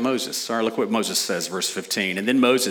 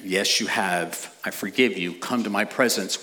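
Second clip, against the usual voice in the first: God forgiving; 3 semitones lower, 4 dB quieter than usual. Retold or imitated. Voicing God's answer in cycle.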